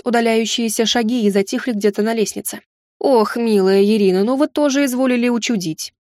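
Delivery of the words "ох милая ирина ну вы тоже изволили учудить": ordinary delivery, nothing marked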